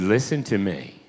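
low, measured voice of the Lord; solemn quoted voice. Retold or imitated. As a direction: speak low and grave, as if quoting God. Retells the Lord speaking to him.

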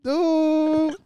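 high squeaky laughing no; laughing protest. Real, not acted.

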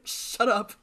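unvoiced hushed whisper; whispered "shut up" between brothers. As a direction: whisper it sharply to shut him up. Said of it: "He's like".

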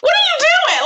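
high whispered disbelief, no voice at all; shocked whisper. Real, not acted. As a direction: whisper it in horror, pitch up. Shocked reaction to friend's story.

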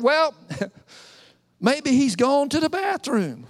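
chuckling mockery mid-line; mocking with a laugh; laughing taunt. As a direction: laugh at them while you jab. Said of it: "Smack talk".

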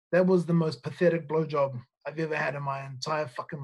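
can't keep a straight face retelling it; doorman's brutal verdict, teller giggling; laughing through it. Real, not acted. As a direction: quote cracking up mid-line. Retold insult, teller laughing.

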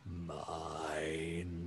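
low, soft, long-drawn word; drooping, crestfallen elephant person. Acted. Elephant alien admits the failing is his, crestfallen. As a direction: let the word droop, deep and hushed. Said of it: "ears and shoulders somehow droop a little further".

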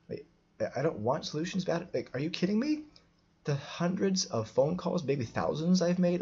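incredulous. Retold or imitated. Retold outrage at a Facebook critic.

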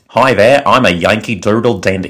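showing off a Midwestern accent. Shown as a demonstration. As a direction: demonstrate a Midwestern American accent, confidently. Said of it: "a quintessential, you know, Midwestern accent".

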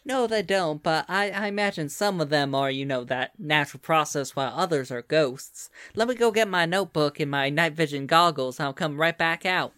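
put-on lilting Southern US accent; Southern accent, explaining with interest; Southern belle. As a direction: talk like a Louisiana Southern belle. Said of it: "Come on, Southern Belle, y'all".

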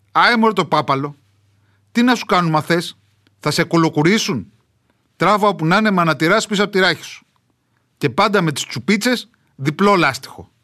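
a hint of a proud mountain villager showing off; old village dialect. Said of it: "με βαριά προφορά". (ελαφρά χωριάτικη φωνή με βαριά προφορά)

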